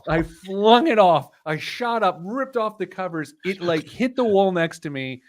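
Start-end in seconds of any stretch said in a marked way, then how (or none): 0.1-3.6 panicked retelling. Retold or imitated. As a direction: relive the spider panic, voice up high. Panic of spider on face.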